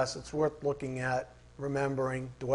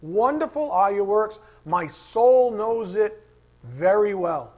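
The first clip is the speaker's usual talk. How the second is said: jubilant; 3 semitones higher, 6 dB louder than usual. Shown as a demonstration. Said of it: "jubilation of the writer".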